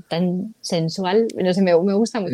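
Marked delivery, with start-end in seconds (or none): 0.0-1.3 slow, lingering on the S sounds; savoring the Spanish S slowly; drawn-out sensual. Shown as a demonstration. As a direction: stretch it out savoringly. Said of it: "esa forma de la S".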